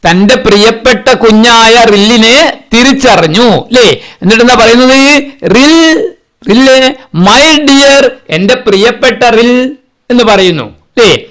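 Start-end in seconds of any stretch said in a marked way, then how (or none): 5.5-9.8 affectionate calling. Acted. Mother bird recognizes and calls Rill.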